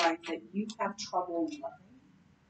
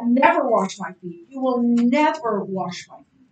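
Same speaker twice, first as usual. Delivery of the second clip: rash statement; 2 semitones higher, 7 dB louder than usual. Retold or imitated. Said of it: "his first one was".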